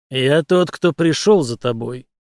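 trembling, sinister stranger voice; mock evil villain. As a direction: spook her with a shaky, menacing voice. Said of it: "Ответ прозвучал дрожащим, зловещим голосом".

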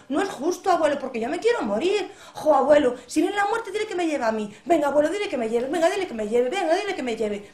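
high, loud insistent pleading; loud childish whining; whining little boy. A narrator's reading. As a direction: nag grandpa like a stubborn kid.

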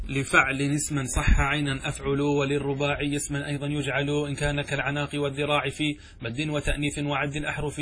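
level, measured chant of a didactic poem; verse recitation. Acted. Teacher reciting the grammar verse to students, monotone metrical recitation. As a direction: recite on one steady note in metre.

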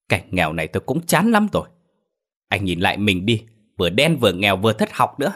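heated, rising scornful rant; angry retort. Acted. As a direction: throw his poverty back in his face. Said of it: "Thảo tức giận, cô đứng lên cãi lại".

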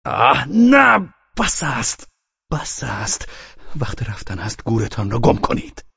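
exasperated cry that drops off; angry shout. A narrator's reading. Furious host orders his guest out, angry shout. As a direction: burst out high and loud, then rein it in. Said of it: "غضبناک شده بود فریاد کشید".

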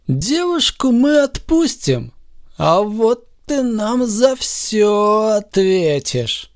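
menacing villain. A narrator's reading. Villain threatens hero.

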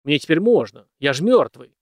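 loud, high booming jest; a master booming a jest at his housekeeper; booming joke. A narrator's reading. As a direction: boom out the joke. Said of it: "зычно пошутил промышленник".

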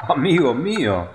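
exclaiming. A narrator's reading. Pompous mayor exclaiming to his councillors. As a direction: burst out in dismay. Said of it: "exclamó".

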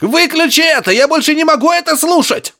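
can't bear it anymore; desperate cry. A narrator's reading.

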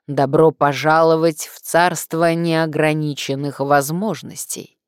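slow creaky voice from beyond the grave; cold hissing layered whisper. Acted. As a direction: creak it out like a dead skull. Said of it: "проскрипел загробным голосом".

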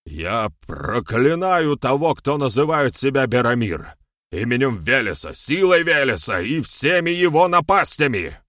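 loud, high, solemn cursing; blurted curse. A narrator's reading. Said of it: "Наконец собрался этот ведун и выпалил". (громко выкрикивая проклятие)

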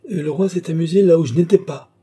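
high, loud burst of indignation; indignant, somewhat terrified. A narrator's reading. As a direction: cry out in outrage edged with fear. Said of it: "avec une indignation qui n'était pas exempte". (indignation criée, teintée de terreur)

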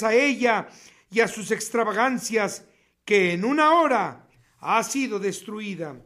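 solemn preacher's reading, steady and grave; weighty sermon reading; preaching scripture. Acted. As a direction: proclaim the doom over the city. Reads Revelation passage aloud.

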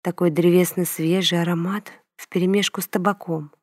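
ordinary delivery

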